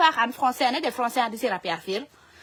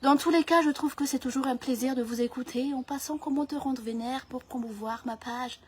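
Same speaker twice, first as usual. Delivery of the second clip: flattering French interviewer. Acted. Interviewer thanking the guest at the end, politely hushed.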